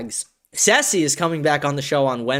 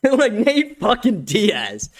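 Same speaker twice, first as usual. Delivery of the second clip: drawn-out hyped name drop; slow excited emphasis on Nate fucking Diaz; 6 semitones higher, much slower than usual. Real, not acted. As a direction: savor the name, slow and pumped. Hyped repeat of fighter name.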